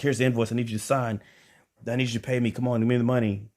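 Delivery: rushing her. Retold or imitated. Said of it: "I'm just rushing her".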